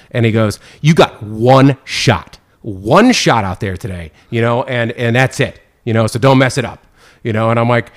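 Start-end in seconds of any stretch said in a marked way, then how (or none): 0.8-6.8 slow, measured mock threat; slow mock stern warning. Guy warning the new judge, slow mock stern. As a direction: lay down the law slowly. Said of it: "He is pissed".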